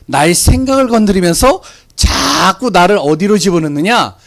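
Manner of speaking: normal talking voice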